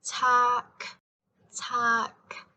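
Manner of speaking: Tak with a hard final K; Tak, puff on the K; strong released K. Shown as a demonstration. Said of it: "a very strong K ending".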